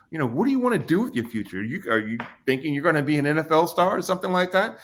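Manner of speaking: lightly voiced counselor pressing him; mock counselor. Retold counselor questioning him.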